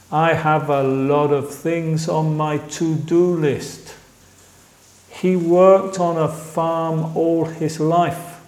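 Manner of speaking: measured language-teacher demonstration; pronunciation model. Shown as a demonstration. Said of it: "voy a repetir esos para ver más de la pronunciación".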